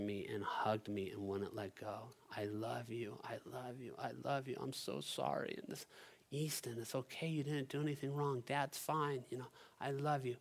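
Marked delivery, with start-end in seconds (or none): 2.4-5.5 soft imitation of an upset child; tender apology. Retold son hugging, apologizing. 6.3-10.4 higher, softened fatherly comfort; gentle reassurance. Retold or imitated. Retold father comforting his son.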